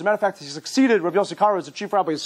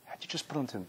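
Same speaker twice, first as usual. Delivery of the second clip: much softer, low and sorrowful echo; quiet rueful father; 8 semitones lower, 17 dB quieter, faster than usual. Retold or imitated. Father quietly rebuking his son, rueful. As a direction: let it fall away to nearly nothing. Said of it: "he says".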